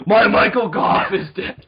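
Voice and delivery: loud, slow, hammed-up lament; mock wailing. Fan learning his actor is dead, mock wailing. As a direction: wail in pretend grief.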